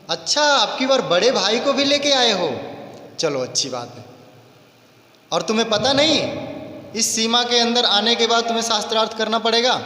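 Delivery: lightly voiced gloating soldier; taunting soldier. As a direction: sneer at the boy you recognise. Soldier taunts the two brothers.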